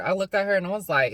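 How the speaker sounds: ordinary talk, nothing marked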